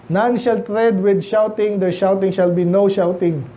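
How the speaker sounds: slow, measured Bible reading; scripture reading. Acted. Pastor reading Isaiah to the congregation, slow and solemn. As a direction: read the verse slowly and solemnly.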